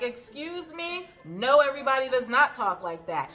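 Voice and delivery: imitating Annie going off, high and loud; indignant mock tirade, pitch jumping up loudly; outraged rant. Annie tells Paul off about swearing, high loud outraged rant. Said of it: "she's going off".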